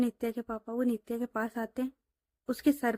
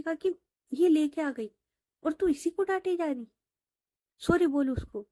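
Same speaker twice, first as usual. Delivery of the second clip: lightly voiced stern dad; stern father scolding; 4 semitones higher than usual. (बेटी को डांटते हुए पिता)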